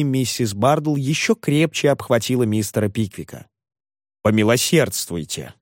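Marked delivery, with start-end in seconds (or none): none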